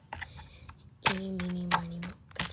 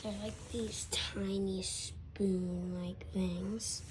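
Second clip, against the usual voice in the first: slow airy whisper; much slower than usual. Acted. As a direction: whisper it slowly, close in.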